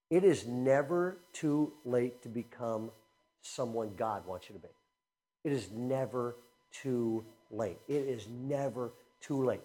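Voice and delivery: sincere preacher's refrain. Real, not acted. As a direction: let the truth sink in gently. Sermon point, repeated slowly.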